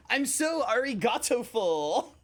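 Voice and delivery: high, slow mock Southern drawl; imitating Southern-accented Japanese. Streamer riffing on the video, mock Southern accent. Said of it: "Japanese in a southern accent".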